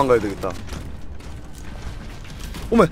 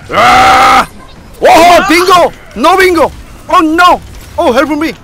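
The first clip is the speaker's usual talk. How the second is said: loud high panicked calls; shouting; 6 semitones higher, 10 dB louder, much slower than usual. Real, not acted. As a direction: cry out for help. Shouting during a teamfight. (다급한 외침)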